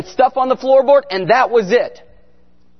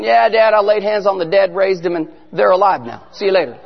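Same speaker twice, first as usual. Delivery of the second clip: casual mock-offhand daughter, dropping lower; nonchalant imitation; 4 semitones lower than usual. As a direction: report a miracle as if it were nothing. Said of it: "She's just so nonchalant about it".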